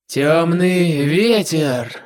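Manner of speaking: slow drawn-out spell call; spell incantation. Acted. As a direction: intone the spell name slowly. Demon casts a spell.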